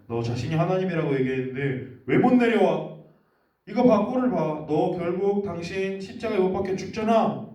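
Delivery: the leaders scoff at Jesus, loud and mocking; jeering mockery. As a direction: jeer up at the man on the cross. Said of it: "막 이렇게 비웃기 시작했어요".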